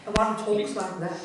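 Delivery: slow, lightly mimicked enthusiastic presenter. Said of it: "They're both super enthusiastic".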